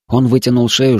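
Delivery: ordinary delivery, nothing marked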